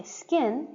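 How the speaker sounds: "skin" with the k grazed over, no puff of air; "skin", k left unaspirated after the s. Shown as a demonstration. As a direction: say "skin" without enunciating the k. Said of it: "you don't necessarily hear me, uh, enunciate on the K".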